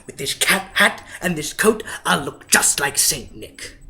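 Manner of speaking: gleeful Grinch. Acted. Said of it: "he chuckled and chuckled".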